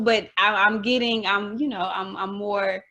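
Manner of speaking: stumbling over restarts; real fumbling for words; tongue-tied. Real, not acted. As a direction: hesitate and grope for the word. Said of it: "why I'm so tongue-tied".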